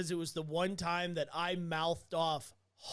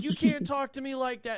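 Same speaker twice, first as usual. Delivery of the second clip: indignant patient; 7 semitones higher, 6 dB louder than usual. Retold or imitated. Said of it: "And he's like".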